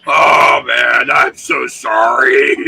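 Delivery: loud, slow tearful apology; sorry shout. Acted. Escort turns to the player, apologizing in a loud slow cry. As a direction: shout the apology as you hug. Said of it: "turns around and goes".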